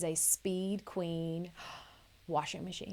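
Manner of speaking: slow, hushed whisper with a gasp; very low voice. Pretend. Host confiding the best laundry investment, in a mock-solemn whisper. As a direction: whisper it like a momentous secret. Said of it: "talk in a very low voice".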